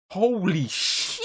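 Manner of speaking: slow, drawn-out awe; stunned. Retold or imitated. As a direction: savour the shock of first seeing it. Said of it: "I didn't say it out loud".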